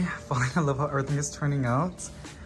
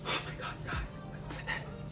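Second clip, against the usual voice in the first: whispering; 12 dB quieter than usual. Real, not acted. Whispered awe at plant.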